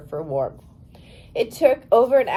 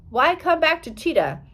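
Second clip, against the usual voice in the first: sharp, higher demand; 7 semitones higher than usual. A narrator's reading. Interpreter demanding why Gladys came back. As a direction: press her for an answer. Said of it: "the interpreter demanded".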